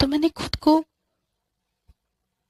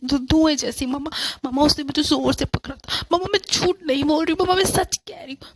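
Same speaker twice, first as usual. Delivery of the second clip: frightened pleading; 4 semitones higher than usual. Acted. Frightened girl insisting to mother.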